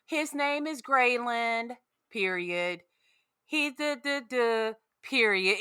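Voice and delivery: slow, sing-song book report reading; childlike reading voice. Retold or imitated. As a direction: read it like a second grader. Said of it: "like she was reading a, like, second grade book report".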